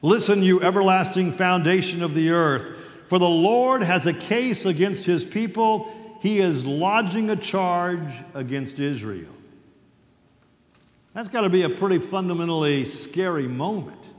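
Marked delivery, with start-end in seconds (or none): 0.0-9.3 loud, declaiming scripture reading. Acted. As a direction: proclaim the verses to the congregation.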